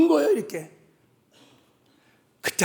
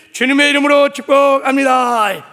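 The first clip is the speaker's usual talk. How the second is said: preaching shout; 3 semitones higher, 7 dB louder than usual. Real, not acted. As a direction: bless them with a ringing shout. Pastor blesses the congregation. (힘차게 외치는 축복 선포)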